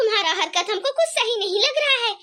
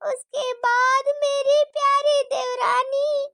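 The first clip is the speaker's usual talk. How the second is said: villainous scheming; 6 semitones higher, slower than usual. Acted. Scheming daughter-in-law plots aloud.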